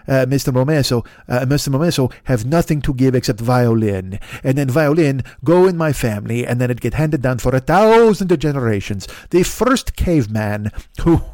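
put-on a light Italian accent on an old shopkeeper. Italian-accented shopkeeper refusing the American soldier, lightly voiced. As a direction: lightly play an Italian violin owner. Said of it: "me competing with Chris Pratt for the voice of Super Mario".

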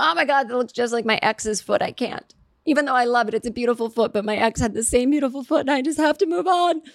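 mock anguish, pitch creeping up toward the end; torn dater. Dater rejecting a foot like an ex's, mock anguish. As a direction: act out a mildly pained rejection.

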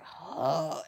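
soft exasperated huff; eye-roll huff. Retold or imitated. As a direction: imitate a dismissive sigh. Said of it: "outwardly rolls her eyes".

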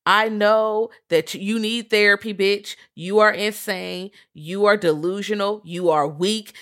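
slow, deliberate dressing-down; retold telling-off. Podcaster voicing a girl telling a delusional boy off, emphatic. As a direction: spell it out word by word, firmly.

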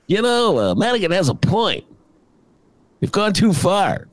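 Darren Bailey imitation. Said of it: "That's a terrible imitation of Darren".

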